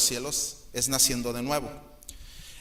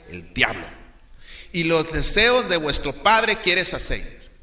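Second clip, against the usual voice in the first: stern scripture reading. Acted. Pastor reading Jesus denouncing the crowd, stern then fading. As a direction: rebuke as you read the verse.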